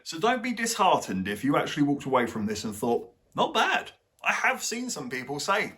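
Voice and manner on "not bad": imitated viewer. Quoting viewers who liked it.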